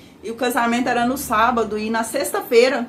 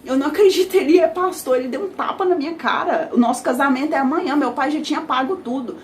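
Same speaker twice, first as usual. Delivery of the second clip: retold crying fit; 3 semitones higher than usual. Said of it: "eu dei crise de choro".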